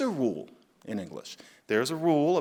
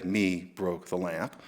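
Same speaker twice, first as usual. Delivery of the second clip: lower, softer, slow "Me broke the lamp"; wrong-form demo; 5 semitones lower, 5 dB quieter, slower than usual. Shown as a demonstration. Showing listeners the sentence nobody says, low and slow. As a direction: drop it low and slow like an obvious mistake. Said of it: "you wouldn't say".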